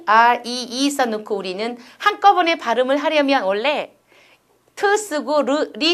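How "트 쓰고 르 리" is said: 트, 르, 리 each as a separate syllable; 음절별로 끊어서. Shown as a demonstration. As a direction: spell out 트, 르, 리 one sound at a time. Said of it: "이렇게 써야 되잖아요". ("트", "르", "리"를 하나씩 끊어서)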